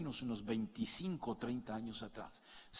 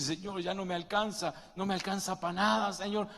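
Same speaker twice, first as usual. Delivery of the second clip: pleading prayer; 6 semitones higher, 5 dB louder than usual. Retold or imitated. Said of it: "Y dice".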